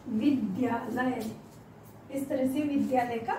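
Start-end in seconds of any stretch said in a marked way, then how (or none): 0.1-1.3 slow assembled word. Shown as a demonstration. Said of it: "ये भी मैं आपका क्लियर कर देती हूँ".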